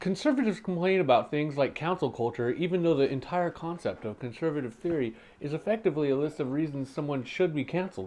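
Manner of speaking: sputtering with a mouthful; mouth full. Acted. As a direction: talk through a bite of food. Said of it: "how you talked with your mouth full".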